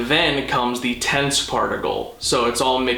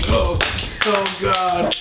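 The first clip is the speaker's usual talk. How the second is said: sudden higher cry of dismay; startled dismay; 6 semitones higher, slower than usual. Real, not acted. Owner reacts to the dog's mess, surprised. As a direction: react as the pet ruins the shot. Dog makes a mess on camera.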